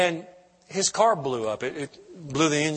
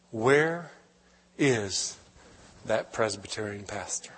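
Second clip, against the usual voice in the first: choked up; 5 semitones lower, 4 dB quieter, much slower than usual. Real, not acted. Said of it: "Can't hardly say it without crying".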